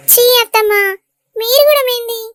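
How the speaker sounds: bashful, teasing complaint; mock-offended bride; coy protest. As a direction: play shy at the in-laws' teasing. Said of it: "ఎందుకు సిగ్గుపడతానవే?".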